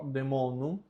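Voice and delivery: "demonum" with E alone after the D; silent A. Shown as a demonstration. Teacher summing up, the A cut out. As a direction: say deh-MO-num for "demonum". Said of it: "nós cortamos ele e fica só".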